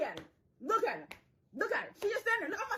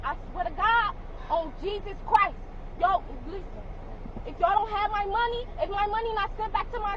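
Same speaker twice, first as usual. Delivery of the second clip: angry; 2 semitones higher than usual. Real, not acted. Threatening officers over refund.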